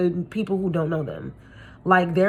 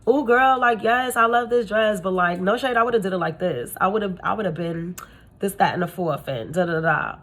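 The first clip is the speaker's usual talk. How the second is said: backhanded compliment. Retold or imitated. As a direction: imitate a friend's sly put-down. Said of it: "it'll be like".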